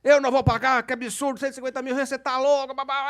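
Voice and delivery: high-pitched indignant rant running into babble; imitated ranting client. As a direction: mimic an outraged client going on and on. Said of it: "já subiu a serra". (imitando cliente esbravejando em voz aguda)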